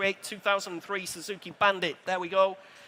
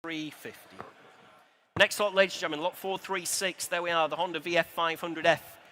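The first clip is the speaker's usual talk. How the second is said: auctioneer calling bids. Acted. Live bike auction calling bids.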